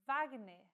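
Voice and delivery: Wagner with W said like a V, as in German; Wagner, W sounds like V; word demo. Shown as a demonstration. Teacher models Wagner for learners, careful pronunciation. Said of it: "follows the pronunciation of the language of origin".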